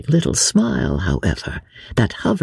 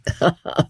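short, high ladylike laugh; light laugh; 6 semitones higher, 3 dB quieter than usual. Acted. Lady amused at her own complaint, a light laugh. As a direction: give a little acted laugh.

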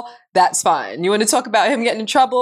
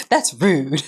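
lightly imitating Madison; 8 semitones lower than usual. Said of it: "Madison just looked over the banister and said".

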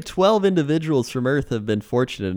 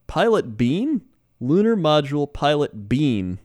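mock announcer voice, high and drawn out; overacted anime dub; 4 semitones higher than usual. Shown as a demonstration. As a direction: call out the name like a cartoon hero. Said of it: "sounds like an anime character".

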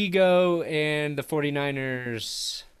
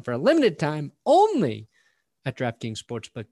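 loud, punchy ad read voice; 4 dB louder than usual. Acted. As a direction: sell it like an energetic ad. Reads a sponsor ad.

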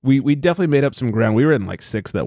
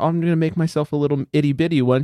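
higher, coy little voice; dainty mock innocence; 5 semitones higher than usual. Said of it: "last night you go".

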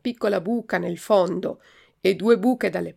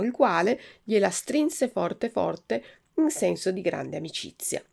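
ordinary delivery, nothing marked

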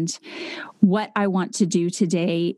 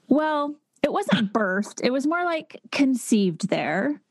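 laughing; 6 semitones higher, slower than usual. Retold or imitated. Teasing quote, giggling through it.

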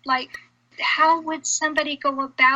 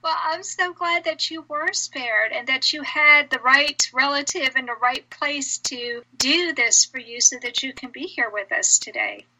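choked up. Real, not acted. Host moved by guest's survival.

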